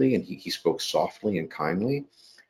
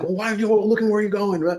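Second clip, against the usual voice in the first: retold street argument; 5 dB louder than usual. Quarrel with driver.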